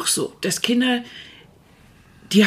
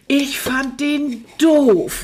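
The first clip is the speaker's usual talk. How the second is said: laughing; 5 semitones higher, much slower than usual. Real, not acted. Laughing at shared memory.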